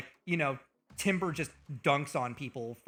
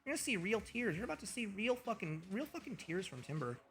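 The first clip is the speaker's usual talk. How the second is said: high, softened, nearly tearful; about to cry; 6 semitones higher, 6 dB quieter than usual. Real, not acted. Streamer overwhelmed by gifted subs, close to crying. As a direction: choke up as if real tears are coming. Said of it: "about to fucking cry, man".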